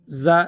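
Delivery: زا with a buzzing z, tongue kept inside the mouth; wrong z sound. Shown as a demonstration. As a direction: demonstrate the mistaken zā. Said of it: "یہ غلط ہو جائے گا". (غلط تلفظ، ذال کی جگہ زا)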